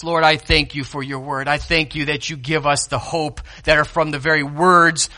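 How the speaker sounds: pastor leading the congregation in prayer, hushed. Acted. Opens in prayer.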